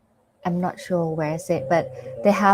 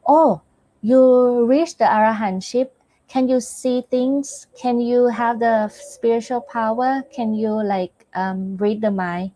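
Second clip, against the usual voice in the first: higher, eager questioning voice; eager questioner; 4 semitones higher than usual. Retold or imitated. Susima eagerly asking the arahants about their powers, higher and eager. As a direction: play a curious seeker asking the arahant. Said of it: "Just like the Susima asked".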